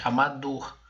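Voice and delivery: "amador" with the final DOR held and weighted; stress on DOR. Shown as a demonstration. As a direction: show that DOR is the strongest syllable of "amador". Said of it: "Pode ver que eu falo ela mais forte".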